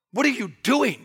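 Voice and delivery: a reproachful 'What are you doing?', meaning stop it; rebuking question. Retold or imitated. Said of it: "the tense is saying, "Stop doing it".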